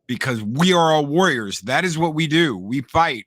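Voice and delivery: lightly acted warrior's rebuke; Leonidas scolding. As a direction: put some proud force into a retold scolding. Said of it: "Leonidas scolds them and he's like".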